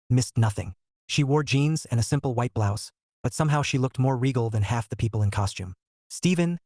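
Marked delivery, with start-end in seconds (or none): 6.1-6.6 excited. A narrator's reading. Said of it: "practically vibrating with excitement".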